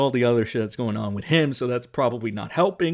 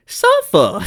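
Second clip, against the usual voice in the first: high, loud mocking shout; one-word playful yell at the audience; taunting yell; 13 semitones higher, 11 dB louder than usual. Real, not acted. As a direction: bark it out like a gleeful curse. Taunting the viewers.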